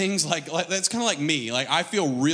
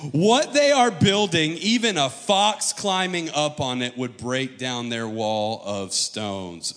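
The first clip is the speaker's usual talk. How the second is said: gloating taunt; 2 semitones lower, slower than usual. Acted. Tobiah sneering at the wall beside Sanballat, slow gloat. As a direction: savor the insult slowly. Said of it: "Watch this".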